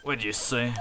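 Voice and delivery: quiet, cool prosecutor, unhurried; lightly voiced smooth rival. Godot voiced in game.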